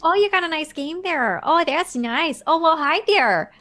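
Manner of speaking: mock Southern clerk, lightly voiced; hammed-up friendly shop pitch, Southern; Southern accent. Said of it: "like, Southern".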